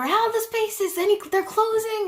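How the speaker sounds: high, loud, over-eager question; hammed-up perky mimicry; mock-chipper orthodontist. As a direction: imitate an overly happy orthodontist checking in. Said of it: "people being on a hundred and happy".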